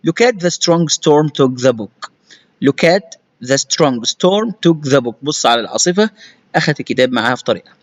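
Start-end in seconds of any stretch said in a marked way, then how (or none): 0.1-5.1 "Look at the strong storm took the book" read slowly; slow model reading. Shown as a demonstration. Teacher reading the sentence slowly aloud. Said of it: "slow reading".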